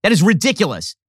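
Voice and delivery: real exasperated swearing, slowed and pushed; cursing outburst. Real, not acted. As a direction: give in and swear, each word weighed down. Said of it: "I'm trying so hard not to curse".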